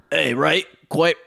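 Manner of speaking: a light put-on British voice, his old version; old British impression. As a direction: greet someone like a stiff Englishman. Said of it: "like, real old one".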